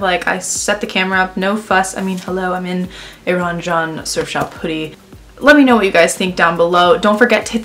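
face stiff under drying mask; talking with face mask on. Real, not acted. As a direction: lips moving inside mask. Seen 2: Black mask covers face throughout; lips are free. R frames are bare-faced.

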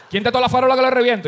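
high, lightly voiced outrage; a hint of an indignant tough guy; mock angry threat. Friend outraged at whoever tied him, mock anger.

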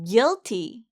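"Guilty" as "gil-tee", no U sound; silent U. Shown as a demonstration. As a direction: drop the U, go straight from G to a short i in "Guilty". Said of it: "유가 없다고 생각하시고 발음". ("Guilty"를 U 없이 '길티'로)

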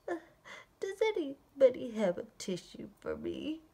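stuffed-up flea begging for help; lightly acted head-cold plea; garbled plea. Sick flea asking sleeping animals for a tissue, garbled plea. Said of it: "Nobody heard his garbled plea".

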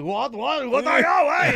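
rising, high-pitched indignant retort; mock outrage. Litterer confronted over trash, imitated outrage. Acting out old man's angry reaction.

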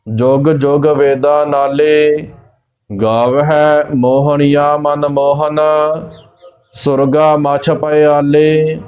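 slow, measured Gurbani recitation; slow devotional reading with long final vowels; scripture recitation. Shown as a demonstration. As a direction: recite line by line, stretching the line endings. Recites scripture between explanations.

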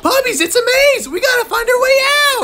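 urgent call. Acted. Urgent call in clown chase.

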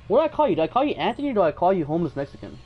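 high, fast mocking jab; teasing. Real, not acted. Streamer roasts a viewer in chat, fast high-pitched teasing. Teasing a chatter named Anthony.

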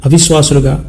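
earnest spoken prayer, addressed to God in rolling phrases; congregational prayer. Real, not acted. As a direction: intercede for the congregation, list after list.

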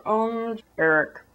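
a worried lawmaker choosing words carefully; tentative mock politician; timid lawmakers. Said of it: "lawmakers are like".

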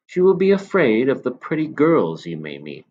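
put-on a knowing old shopkeeper confiding; old man. Old man voiced in story.

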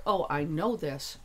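casual drawn-out claim to know; full-voiced, slow "oh, I know"; glib surface knowing. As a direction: say it aloud like an easy, offhand boast. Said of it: "Not like".

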